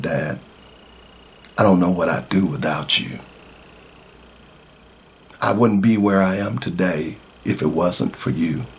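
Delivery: low, softened retelling of a son's gratitude; tender and understated, pitched low; heartfelt thanks. Retold or imitated. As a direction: quote his thanks quietly and sincerely.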